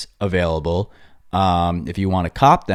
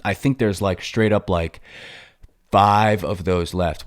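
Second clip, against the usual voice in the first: out of breath. Real, not acted. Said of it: "Well, I'm out of breath".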